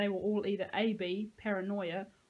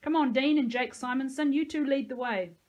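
raised, hearty commanding voice; loud ordering; 5 semitones higher, 7 dB louder than usual. A narrator's reading. Peyton sending two boys ahead, loud ordering. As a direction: call out orders to the troop.

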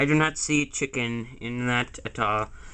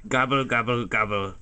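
turkey gobble. Shown as a demonstration.

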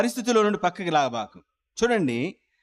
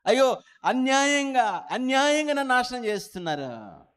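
high, wailing lament; lamenting cry; 6 semitones higher than usual. Acted. Wronged believer crying out in anguish, high wail. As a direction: cry out that nobody hears.

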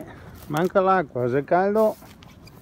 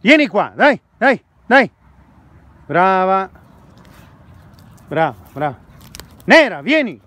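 talking to a dog. Real, not acted. Calling the dog outdoors. (richiamo al cane, forte e acuto)

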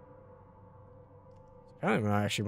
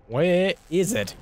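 slow, high, louder drawn-out question; exasperated drawn out; 7 semitones higher, 7 dB louder, much slower than usual. Real, not acted. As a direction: stretch it out in exasperation. Searching, asks again drawn out.

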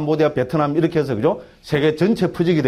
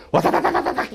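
mock rapid-fire dialect gibberish; rapid Gyeongsang babble; 13 semitones higher than usual. Lecturer imitates himself to a Harvard scholar, rapid dialect babble. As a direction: rattle off nonsense syllables like thick dialect. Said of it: "경상도 사투리로 막 이러면".

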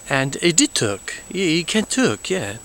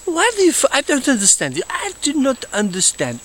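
exasperated; 10 semitones higher than usual. Acted. Exasperated outburst at followers.

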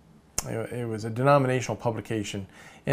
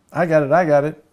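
loud, raised-pitch eureka; excited brainwave; 5 semitones higher, 9 dB louder than usual. Acted. Cartoon writer finds his better word, mock excited. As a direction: burst out with a sudden acted discovery.

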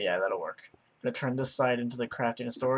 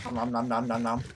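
nom nom chomping; faster than usual. Pretend. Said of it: "I'm getting hungry as hell".

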